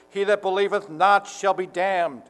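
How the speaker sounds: imagined harsh condemnation, full voice. Retold or imitated. Preacher mimicking an imagined fist-clenched Jesus condemning unbelievers, harsh voice. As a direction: pronounce it sternly, as a harsh judgment. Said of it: "a harsh voice".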